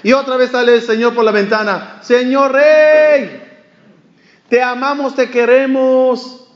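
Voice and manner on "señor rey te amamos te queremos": calling out again. Retold or imitated. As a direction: stretch it out sweetly from the window, higher than before. Tailor calls from window again. (llamada aguda, fuerte y lenta desde la ventana)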